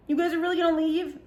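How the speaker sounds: high-pitched incredulous question; lightly mocked, high disbelief; mock indignant friend. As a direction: imitate a friend's put-out protest. Drunk friend protests at them leaving.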